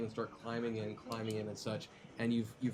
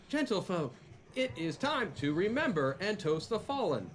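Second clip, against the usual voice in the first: higher, formal ceremonial address; announcer voice; 4 semitones higher than usual. Acted. Host toasts the fallen, in the put-on announcer voice. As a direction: propose a solemn toast like an announcer. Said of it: "lousy time to use that voice".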